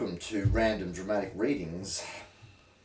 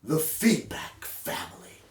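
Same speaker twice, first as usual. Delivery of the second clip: grand, higher announcement of the heading; dramatic title; 4 semitones higher than usual. Shown as a demonstration. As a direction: announce The feedback family like a film title. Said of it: "Maybe that's not dramatic enough".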